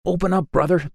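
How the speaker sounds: high, squeaky panicked plea; frightened piglet squeaking for help. A narrator's reading. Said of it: "He squeaked".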